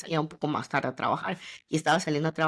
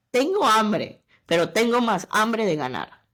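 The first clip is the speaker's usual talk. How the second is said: louder, stressing tengo; declaring resolve; 3 semitones higher, 5 dB louder than usual. Retold or imitated. Posting to her followers, loud determined declaration. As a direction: proclaim it like a motto. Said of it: "salí diciendo mis historias y dije".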